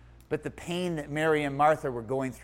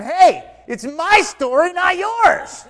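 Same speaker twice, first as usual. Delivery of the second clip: loud, high, drawn-out indignant yell; mock irritated outburst; 11 dB louder, slower than usual. Preacher retells scolding the crying pastor, comically irritated yell. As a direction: burst out in hammed-up exasperation. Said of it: "I'm starting to get irritated".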